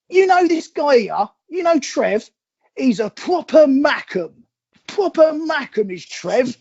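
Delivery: lightly voiced Mackem local sizing them up; retold local's challenge.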